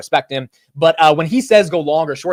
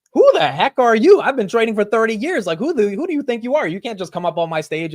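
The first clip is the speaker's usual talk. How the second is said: indignant fighting back; 8 semitones higher than usual. Retold or imitated. Martin shouting back at the aggressive guest, mock indignant. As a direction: push back hard like someone insulted on his own stage. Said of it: "Martin starts fighting back".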